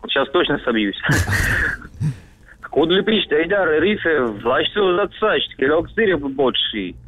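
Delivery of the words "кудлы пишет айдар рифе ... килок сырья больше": Кудлы пишет said as reversed gibberish; backwards speech. Pretend. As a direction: read the phrase backwards, sound by sound. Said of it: "поздравить задом наперёд".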